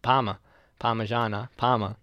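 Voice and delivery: PARMA and PARMIGIANA with an easy "muh"; local accent. Shown as a demonstration. Showing a friend the link, Parma with unstressed "muh". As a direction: say "par-muh", then "par-muh-zhana", matching the vowels. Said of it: "That's how we say it in our accent".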